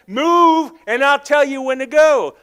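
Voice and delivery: loud, high command; God's command. Retold or imitated. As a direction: order it forcefully, hitting MOVE. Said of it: "He just said".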